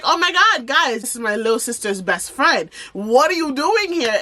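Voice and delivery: high-pitched excited recognition, imitated; surprised greeting. Nurse spotting little sister's best friend, imitated surprise. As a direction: exclaim high at an unexpected face.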